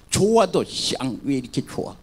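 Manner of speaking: sour grumble even about something good; grumbling, sour. Retold or imitated. Preacher imitating a chronic complainer in heaven, sour grumble. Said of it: "기분 나쁘게".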